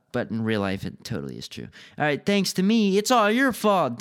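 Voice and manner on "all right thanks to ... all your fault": higher, indignant comeback; indignant retort in a raised pitch. A narrator's reading. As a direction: throw the blame back, dragging the accusation out. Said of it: "Dylan retorted".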